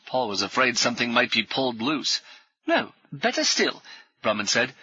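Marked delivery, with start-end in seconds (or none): 2.7-3.8 brisk, higher, jovial military gent; hearty ex-officer. Acted. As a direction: bluff old soldier greeting new friends. Brummond proposes club.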